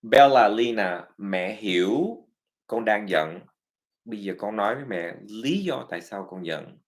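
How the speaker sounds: mẹ nói nhẹ nhàng, chậm rãi; calm understanding parent. Retold or imitated. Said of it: "That's a psychological perspective".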